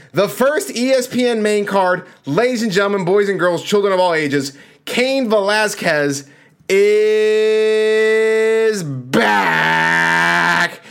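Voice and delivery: booming ringmaster announcement. Acted. Announcer hype intro of the fight.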